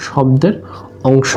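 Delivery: শব্দের, pause, অংশ, as two separate pieces; word split in parts. Shown as a demonstration. Teacher breaking a compound term for students, শব্দের / অংশ said apart. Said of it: "এটাকে যদি আমরা ভাঙি".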